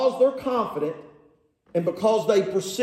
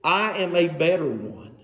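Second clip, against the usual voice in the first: lower, measured declaration; slightly lowered, deliberate claim; switched tone; 4 semitones lower than usual. Acted. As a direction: drop the pitch and state it firmly. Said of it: "Paul switches his tone a little bit here".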